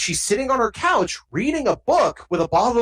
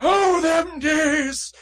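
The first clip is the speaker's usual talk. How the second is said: mock old-timer; 7 semitones higher, much slower than usual. Mock old-timer reminiscing, laughing.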